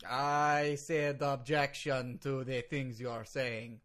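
put-on slow, deliberate Russian-accented English. Lawyer repeats his objection to host, slow Russian accent. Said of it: "You were speaking with a Russian accent".

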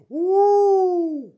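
high loud whooping yell; high triumphant woo; Flair woo. Acted. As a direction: let out a wrestler's signature woo.

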